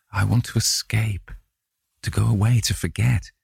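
longing to escape. A narrator's reading. Dorian confides his wish to flee to his friend, mildly desperate.

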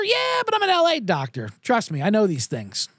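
mock doctor on the witness stand explaining it away; breezy doctor. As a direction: toss it off lightly like it's obvious. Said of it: "Are you a doctor?".

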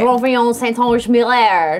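name said with a French accent; slow, careful French pronunciation. Real, not acted. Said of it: "I like that you say it with the accent".

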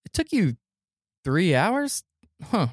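high-pitched mock disbelief; doubting boss. Bosses doubting the mascot's long errand, high incredulous voice. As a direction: imitate a boss questioning an excuse.

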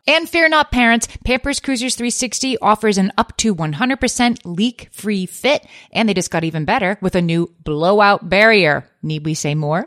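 polished commercial voice; ad read. Acted. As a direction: pitch the product smoothly. Reads a Pampers ad.

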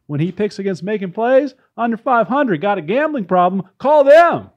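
mock tout's sales pitch; lightly put-on infomercial huckster; gambling ad read. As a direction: sell betting picks like a hammy pitchman. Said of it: "This is a gambling ad".

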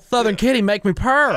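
playful Southern kitty voice; Southern accent. Retold or imitated. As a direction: put on a mock Southern accent. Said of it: "I'm kinda Southern now".

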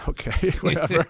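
軽くあしらう; dismissive. Retold or imitated. Brushing off prank call.

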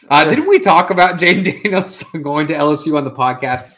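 words broken by giggles; real laughter slipping into the question; laughing through it. Real, not acted. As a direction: try to ask it straight but keep cracking up. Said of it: "I can't keep my, my face straight".

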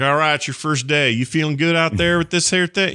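a hint of a Southern company man; lightly drawled Southern accent. Company guy calling on your first day, light Southern accent. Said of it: "he's got that, that accent".

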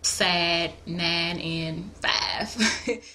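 sad, nine, five with flat ah vowels; Southern ah in nine and five; Southern monophthong I. Shown as a demonstration. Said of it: "you might hear".

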